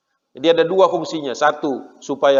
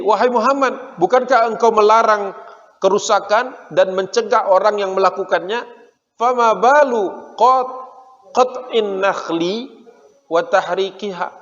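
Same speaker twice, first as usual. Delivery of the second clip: mock shout; 5 semitones higher, slower than usual. Jews accusing Muhammad from the fort, mock yell. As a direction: hurl the charge at him from the fort. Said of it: "Jadi teriak gitu".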